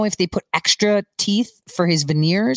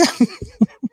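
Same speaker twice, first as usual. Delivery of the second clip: laughing; 4 semitones higher than usual. Real, not acted. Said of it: "I'm laughing just thinking".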